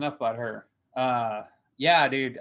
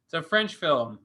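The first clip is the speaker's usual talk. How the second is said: higher, burst-out "No, no" that settles down; fake-indignant outburst, pitched up; mock outburst; 8 semitones higher than usual. Recalling the film's twist to his co-host, mock outburst. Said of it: "it's like".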